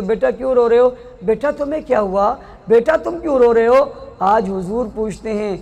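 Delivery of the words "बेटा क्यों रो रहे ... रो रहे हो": loving. Shown as a demonstration. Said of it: "तो आप बड़ी मोहब्बत से कहती हो".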